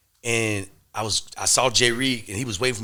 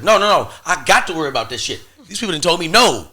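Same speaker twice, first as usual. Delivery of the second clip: higher, louder, insistent retold protest; 5 semitones higher, 7 dB louder, faster than usual. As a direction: push back hard, refusing to brush it off. Refusing to let it go.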